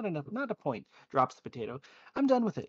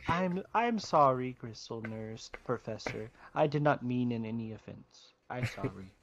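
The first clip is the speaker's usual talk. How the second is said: apologetic; 5 semitones lower than usual. Acted. Consoling apology to offended nurse.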